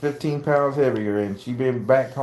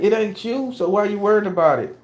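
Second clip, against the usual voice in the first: gruff dad; 10 semitones higher, 3 dB louder than usual. Retold or imitated. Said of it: "I'm an old hard ass".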